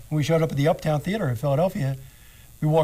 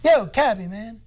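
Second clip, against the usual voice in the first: calling out; 7 semitones higher than usual. Retold or imitated. Lenny yelling to the cab driver across the road. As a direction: hail the cabbie like a buddy.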